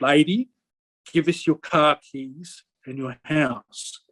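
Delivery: a hint of a creepy robot in a slowed-down retold threat; creepy robotic voice. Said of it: "he had a real robotic voice as he was talking".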